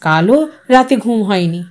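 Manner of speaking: ordinary delivery, nothing marked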